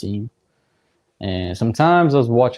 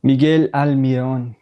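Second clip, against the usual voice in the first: Miguel Almiron in a Spanish accent, louder; 2 semitones higher, 4 dB louder than usual. Shown as a demonstration. Streamer showing off the player's name, Spanish accent. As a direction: call the name out with Spanish pronunciation. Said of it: "That's a good accent".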